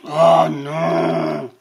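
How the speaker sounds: sighing. Acted. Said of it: "soupira le lion".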